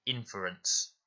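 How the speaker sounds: "Inference" stressed on IN, with a short "fer"; short unstressed fur. Shown as a demonstration. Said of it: "it is making a short sound".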